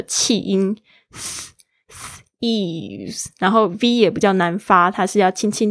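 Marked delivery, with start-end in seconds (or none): 2.4-3.3 thieves with a soft bitten th; tongue lightly between teeth for thieves; th sound demo. Shown as a demonstration. Teacher modelling thieves for students, soft th. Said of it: "轻轻的咬住舌尖".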